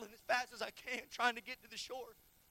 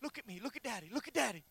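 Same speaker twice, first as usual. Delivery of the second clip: retold soothing father; faster than usual. Father to daughter with a hook in her ear, retold soothing. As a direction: gently reenact calming a hurt child. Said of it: "looking at Kenzie saying".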